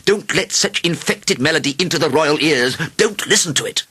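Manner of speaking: high-pitched, emphatic alarmed warning; shouting doctors. A narrator's reading. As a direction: plead with the king in mounting disgust. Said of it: "shouted the doctors".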